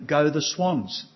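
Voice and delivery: put-on slow, drawn-out little-kid chant of the team name; lightly voiced two-year-old cheering his team; toddler cheer. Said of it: "He's very good at saying".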